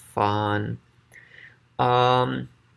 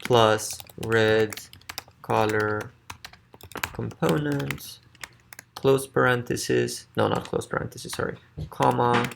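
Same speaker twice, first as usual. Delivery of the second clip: dictating. Shown as a demonstration. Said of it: "we'll say".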